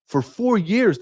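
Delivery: For four years leapt far up in pitch, falling on years; emphatic stress. Real, not acted. Pressing the point on his audience, pitch shot high. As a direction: throw the repeat up high to drive it home. Hammering home the duration.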